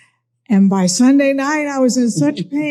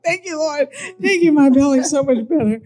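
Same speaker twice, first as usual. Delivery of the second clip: relieved thanks; 5 semitones higher than usual. Retold or imitated. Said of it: "I was like".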